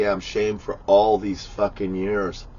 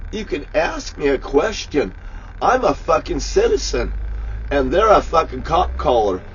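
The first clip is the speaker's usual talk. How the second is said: angry retort; 4 semitones higher than usual. Retold or imitated. Retelling his argument with cops.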